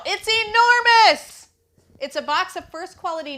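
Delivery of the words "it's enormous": excited. Real, not acted. Huge box reveal.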